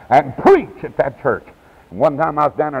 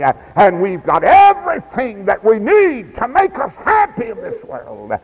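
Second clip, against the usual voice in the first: rhythmic preaching; 2 semitones higher than usual. Real, not acted. Preacher counting blessings for the congregation, rhythmic rising preaching.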